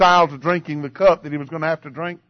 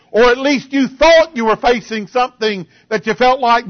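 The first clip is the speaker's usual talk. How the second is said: raised, emphatic preacher's delivery; impassioned preaching; 7 semitones higher, 4 dB louder than usual. Acted. Preacher to congregation on facing a hard cup, impassioned.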